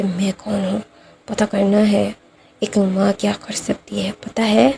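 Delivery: dark deep voice, mother's threat. Retold or imitated. Mother threatening grandma in a deep voice. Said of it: "अपनी deep voice में".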